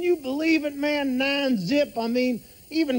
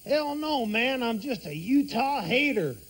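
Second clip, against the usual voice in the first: Bill Clinton impression; 2 semitones lower than usual. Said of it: "President Bill Clinton".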